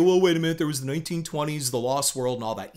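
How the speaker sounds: quick, tossed-off imitation of a quibbler; lightly mimicked know-it-all interrupting; mock objection. Mimics a listener arguing back.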